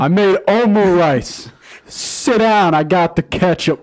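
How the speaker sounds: high sister voice. Pretend. Voicing the sister.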